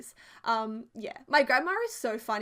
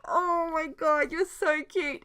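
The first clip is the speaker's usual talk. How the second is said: high, loud, adoring coo; retold gushing; 6 semitones higher, 6 dB louder, slower than usual. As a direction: gush as if grandma is adorable. Gushing at grandma's sweet offer.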